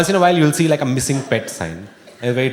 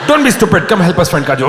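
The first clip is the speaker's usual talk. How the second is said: friend scolding; 6 semitones higher, 6 dB louder than usual. Retold or imitated.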